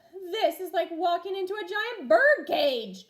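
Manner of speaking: put-on mild yell from a kid. A narrator's reading. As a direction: shout in amazement. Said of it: "Jack yelled".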